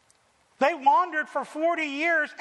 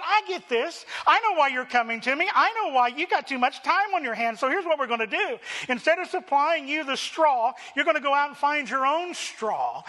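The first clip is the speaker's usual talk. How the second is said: lightly voiced Pharaoh berating lazy workers; mock Pharaoh; 3 semitones higher than usual. Preacher voices Pharaoh scolding Israelites.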